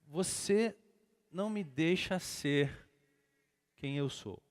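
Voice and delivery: slow, halting retold reproach with pauses; understated imitation of a tearful wife. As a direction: break it into slow, hurt pieces. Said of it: "o olho cheio de lágrimas".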